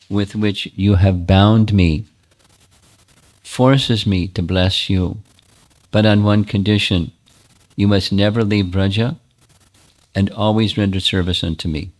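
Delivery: solemn deity. Acted. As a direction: pronounce the blessing like a goddess. Deity solemnly grants a blessing.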